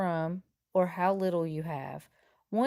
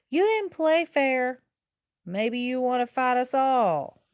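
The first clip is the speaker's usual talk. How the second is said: raised, slow accusing voice; indignant shout at a cheater; angry challenge; 5 semitones higher, 5 dB louder than usual. Acted. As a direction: call him out loudly for cheating. Confronting the cheating leader.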